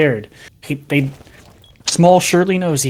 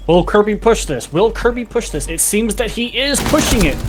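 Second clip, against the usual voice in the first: higher, tense play-by-play; esports caster; 5 semitones higher than usual. Real, not acted. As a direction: build the suspense, climbing up. Caster builds tension on the push.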